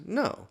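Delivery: NO jumped way up high; emphatic no. Shown as a demonstration. Pastor answering God's rhetorical question, emphatic. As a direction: land No as the obvious answer. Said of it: "an emphatic no".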